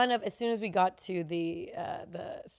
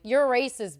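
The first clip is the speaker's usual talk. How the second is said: raised, louder call-out; acted jab, pitched up; retold loud accusation; 4 semitones higher, 7 dB louder than usual. Retold repeated accusation in quarrel.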